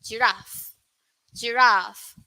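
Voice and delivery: "Giraffe" the British way, long "raff"; British pronunciation. Shown as a demonstration. Teacher modelling the UK "Giraffe" to the class. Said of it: "this is for U K pronunciation".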